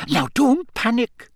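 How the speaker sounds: high-pitched anxious reassurance; anxious professor. A narrator's reading. Professor walking Harry to the dragons, anxious. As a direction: urge calm in a high, tense voice.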